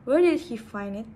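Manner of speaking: "Where" hit loud, then falling; quick question, starting strong on "Where"; falling wh-question intonation. Shown as a demonstration. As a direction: punch "Where" and let the pitch drop after it. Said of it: "a falling intonation for w questions".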